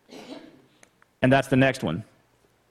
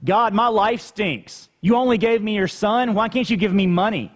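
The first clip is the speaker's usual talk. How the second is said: higher, whining grumble at God; mock a spoiled complainer, pitched up; whiny complaint; 6 semitones higher than usual. Preacher mimicking an ungrateful believer, whiny and higher. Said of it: "But don't we?".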